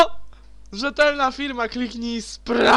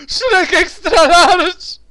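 slow booming trailer announcer; announcer shout; 8 semitones higher, 10 dB louder, much slower than usual. Retold or imitated. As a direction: bellow the product name like an ad. Wykrzykuje nazwę zabawki z reklamy. (krzyk lektora z reklamy)

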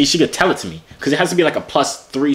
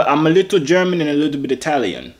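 put-on unconvincing German accent with an Italian lilt; fake German-Italian accent. Prankster explaining his accent to a German, fake German-Italian accent. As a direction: badly fake a mixed European accent. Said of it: "doesn't sound like German accent".

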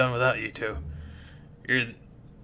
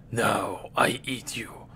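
slow monster threat; 4 semitones lower, 4 dB quieter, slower than usual. Acted.

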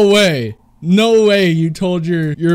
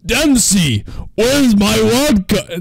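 Nikolai impression; 3 semitones higher, slower than usual. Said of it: "I can do a Nikolai impression".

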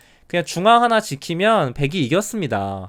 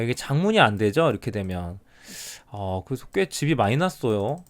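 ordinary talk

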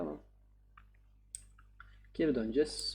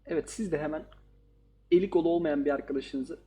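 louder, hammed-up call to action; mock outro plug; 5 dB louder than usual. Gamer jokes to viewers about tagging friends, hammed-up promo. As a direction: pitch it like a YouTuber's promo. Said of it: "öyle de olmadı lan".

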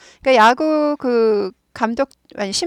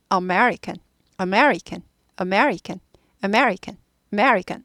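American as uh-MER-ikan, falling after me; stress on me; 2 semitones lower, much slower than usual. Shown as a demonstration. Teacher drilling learners, stressed-me American. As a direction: barely voice the first a of American. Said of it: "매만 들리면 돼요".

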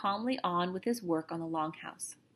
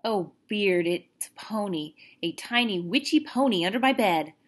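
mocking; 4 dB louder than usual. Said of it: "said Omri mockingly".

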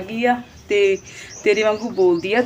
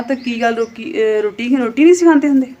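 higher and louder, challenging; heated rhetorical question; 3 semitones higher, 6 dB louder than usual. Real, not acted. Vlogger challenging a rival's taunt, heated and loud. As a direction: fire the question back at her.

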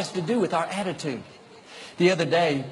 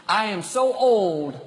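slow, higher self-pitying moan; mock complaint; 4 semitones higher, slower than usual. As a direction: sigh it out like a tired complainer.

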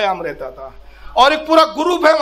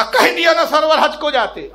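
higher-pitched mock scolding; retold scolding; 5 semitones higher than usual. Saint tells reluctant disciple to go on Hajj, scolding. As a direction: repeat it as a mild, insistent telling-off. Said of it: "इतना जोर से डांट के कहा".

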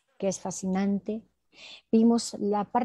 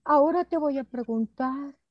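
plummy voice; 4 semitones higher than usual. Shown as a demonstration. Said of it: "Esta voz no es mi voz".

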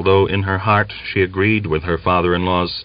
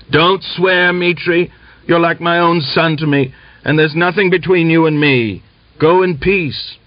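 put-on high, insistent old man's dismissal; raised-pitch appeal; 8 semitones higher, 3 dB louder than usual. A narrator's reading. Old man sending off his cursing kinsman, high-pitched appeal.

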